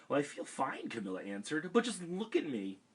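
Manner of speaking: put-on a girl fretting over her stripes; worried girl. Camilla voiced in story.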